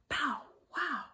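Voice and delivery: light woofing bark; a hint of a barking dog. Teacher lightly barking like a dog.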